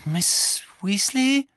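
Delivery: high, slow, croaked question; croaking. A narrator's reading. Harry croaking at the sobbing Mrs Weasley. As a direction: croak it out in shock. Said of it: "krächzte Harry".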